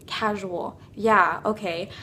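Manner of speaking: low, quiet feigned nonchalance; acting casual. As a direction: play it cool after a steadying breath. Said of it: "Act casual or else".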